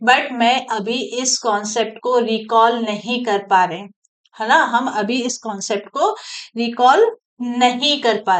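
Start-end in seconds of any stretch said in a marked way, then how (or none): 0.1-3.8 politely. Shown as a demonstration. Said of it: "तब भी प्यार से बोलिए".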